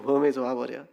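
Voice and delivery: 전라도 사투리로 조용히 되풀이; Jeolla dialect. Shown as a demonstration. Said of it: "뭐 이런 말 되겠죠".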